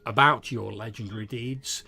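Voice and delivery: lightly voiced storyteller, animated and emphatic; warming to the subject like a keen bard; eager bard. Bard asking a hero for new tales, eager and enthusiastic.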